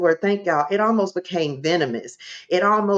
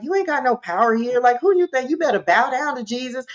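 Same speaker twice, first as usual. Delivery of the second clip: higher-pitched retold rebuke; going in; 5 semitones higher, faster than usual. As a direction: lay down the law to an intruder. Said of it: "I start going in".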